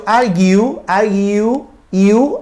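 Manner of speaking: "argue" with its "iu" glide drawn out and rising, then "iu" alone; final diphthong. Shown as a demonstration. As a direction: bring out the "iu" closing "argue". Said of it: "ahí hay un diptongo".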